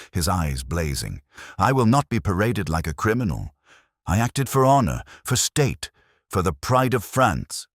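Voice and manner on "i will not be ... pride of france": furious outburst, higher and louder. A narrator's reading. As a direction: rage at being arrested, proud and defiant. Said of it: "cut through his fury like ice".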